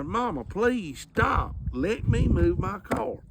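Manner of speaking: drawn-out frantic please to his mama; desperate pleading. Retold or imitated. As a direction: plead with her as if it's the last chance. Repeated plea, more desperate.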